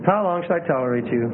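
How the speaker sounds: restrained, heartfelt reproach; sincere, understated weariness; Jesus, with feeling. Shown as a demonstration. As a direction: say it gently, without any acid. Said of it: "You know it wasn't unfeeling".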